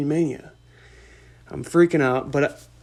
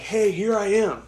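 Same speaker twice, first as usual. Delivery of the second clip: bright, higher greeting, eager; excited; 6 semitones higher, 3 dB louder than usual. Retold or imitated. Greeting Jake in line, excited and higher. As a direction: pop up happy to see him. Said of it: "excited, like".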